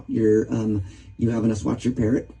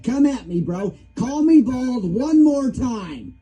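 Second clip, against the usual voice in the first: higher, slow mock tough-guy taunt; retold challenge; 10 semitones higher, much slower than usual. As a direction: relive squaring up to the parrot, higher. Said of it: "I'm getting worked up again".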